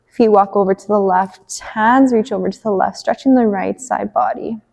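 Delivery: measured cueing with long pauses; spacious, unhurried movement cues; guided yoga instruction. Acted. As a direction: lead a gentle stretch, phrase by phrase. Leads gentle stretches on the mat.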